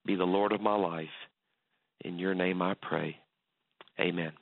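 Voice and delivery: subdued prayer with long pauses; leading a prayer. Real, not acted. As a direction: pray simply, phrase by phrase, for listeners to follow. Leads listeners in prayer.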